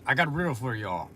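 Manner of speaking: quick, run-together delivery; said kinda fast. Real, not acted. Streamer announcing a riddle to viewers, kinda fast. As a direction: rush through the line. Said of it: "I said that kinda fast".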